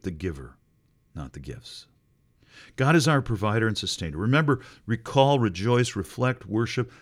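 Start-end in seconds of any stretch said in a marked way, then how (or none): 2.8-4.2 louder and fast, declared; emphatic proclamation. Real, not acted. Preacher restating the point to the church, louder and fast. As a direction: proclaim it with fire.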